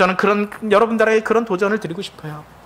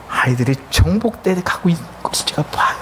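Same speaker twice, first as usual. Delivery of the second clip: hushed whisper. Real, not acted. Tender point about his children.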